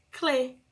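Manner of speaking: Clé with a clear CL blend; syllable demo. Shown as a demonstration. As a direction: sound out Clé for kids. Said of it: "eu vou ter outro som".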